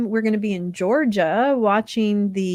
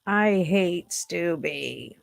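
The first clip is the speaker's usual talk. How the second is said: slow mock grumble; 3 dB quieter, much slower than usual. Shown as a demonstration. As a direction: drag it out like a grumpy cartoon. Slow repeat in another voice.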